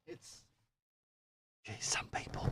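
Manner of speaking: unvoiced exasperated aside; whispered grumble. Real, not acted. Reader grumbles about the dropped card, whispered. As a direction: mutter it under your breath.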